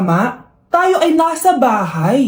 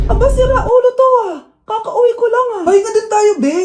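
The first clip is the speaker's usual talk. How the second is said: exasperated outburst; 5 semitones higher than usual. Acted. Exasperated partner snapping back.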